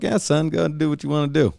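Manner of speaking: mock supportive parent. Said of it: "The parents are like".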